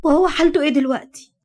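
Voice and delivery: quick, high begging; fast pleading. Acted. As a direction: rush the question, imploring. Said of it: "ردت عليها بتوسل". (توسل سريع ملهوف)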